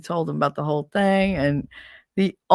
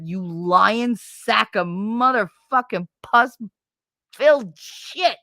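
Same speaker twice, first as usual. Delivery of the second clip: angry; 3 semitones higher, much slower than usual. Real, not acted. Ranting at ex-husband.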